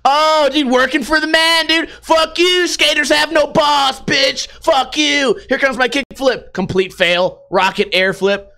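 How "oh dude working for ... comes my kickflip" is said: put-on high, bratty skater kid ranting and swearing; a punk kid yelling he won't leave, then cracking; whiny teen skater. Skater kid ranting at a library guard, high and whiny.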